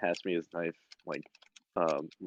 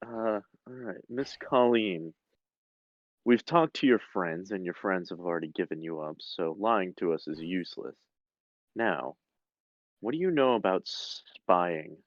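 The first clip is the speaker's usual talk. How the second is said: menacing interrogator. Acted. Interrogator voice to prisoner.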